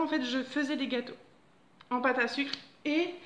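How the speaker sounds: hiccuping mid-sentence. Real, not acted. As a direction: talk through the hiccups. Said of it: "je vais arrêter".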